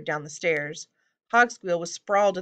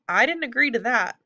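high, loud goblin objection; exclaimed protest; 6 semitones higher, 5 dB louder than usual. A narrator's reading. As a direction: object in sudden alarm. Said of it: "Hogsqueal exclaimed".

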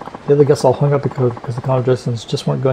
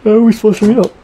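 rising puzzled voice; 3 semitones higher, 5 dB louder than usual. Acted. Reads game character's puzzled lines.

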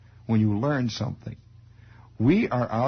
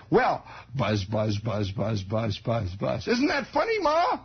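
put-on innocent kid; slower than usual. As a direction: chatter on like a kid. Kid retells gossip giggling.

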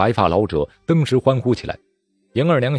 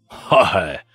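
lazy scornful laugh; 3 dB louder than usual. Acted. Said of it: "他打了个哈欠，笑道".

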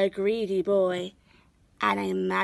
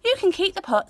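higher, lightly voiced old woman; old woman gifting the pot to Hannah; kindly old woman; 11 semitones higher, 4 dB louder, much faster than usual. A narrator's reading. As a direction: give it as a gift.

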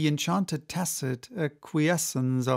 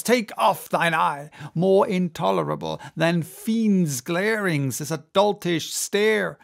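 intense, brooding sea captain; obsessed captain; 2 semitones higher than usual. Acted. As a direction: rant with growing obsession. Ahab's tirade continues.

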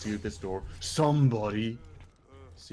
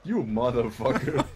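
laughing curse; 2 semitones higher, 6 dB louder than usual. Real, not acted. Friend laughing during the fight.

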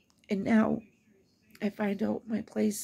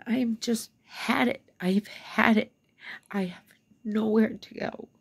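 fed up; 3 dB louder than usual. Real, not acted. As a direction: build from weary emphasis to a loud, fed-up repeat. Fed up, venting about landlord.

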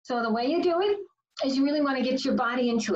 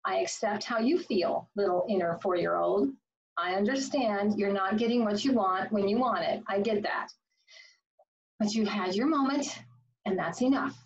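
calm self-talk. Shown as a demonstration. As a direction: gently settle your inner child. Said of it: "and you say".

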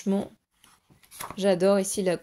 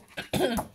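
throat clearing; 4 semitones higher than usual. Real, not acted. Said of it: "J'ai la voix qui part".

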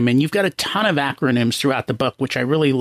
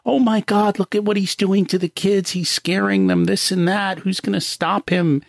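higher, alarmed gossiping mothers; mock worried mothers; 6 semitones higher than usual. Wife overhears mothers at soccer, mock alarmed. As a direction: imitate the fretting soccer moms. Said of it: "she'd hear the mothers like".

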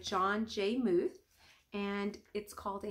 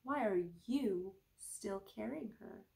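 slow, soft, gentle question; quiet old monk gently asking; calm wise monk; 4 dB quieter, slower than usual. Acted. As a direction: ask it softly, like a patient teacher. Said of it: "the older monk replied".

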